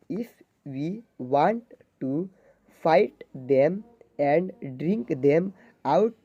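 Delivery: halting, very slow read-aloud; slow word-by-word reading. Shown as a demonstration. Teacher reading a paragraph to zero-level students, very slow and halting. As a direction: sound out each English word slowly for beginners.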